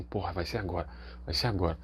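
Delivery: low, hushed, scared muttering to himself; almost under his breath, steeling himself; nervous mutter to self. Retold or imitated. Nervous self-talk before surgery.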